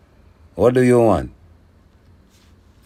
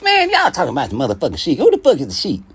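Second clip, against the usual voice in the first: Leonard Ellerbe impression; 3 semitones higher, faster than usual. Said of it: "That's my Leonard Ellerbe voice".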